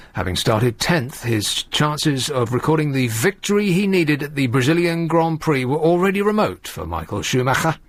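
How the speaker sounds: measured race-report reading; sports report read. Acted. Radio host reading a motor racing report, mock-serious bulletin style.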